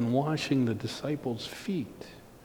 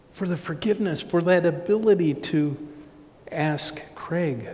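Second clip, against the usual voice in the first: higher-pitched sermon plea; emphatic preaching; 5 semitones higher than usual. Real, not acted. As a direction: lift the voice to press the point. Preaches with raised voice.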